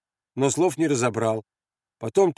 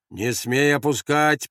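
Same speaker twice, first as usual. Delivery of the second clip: slow, measured command; firm order; 2 semitones higher, slower than usual. Acted. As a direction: order him firmly. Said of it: "приказал ему голос".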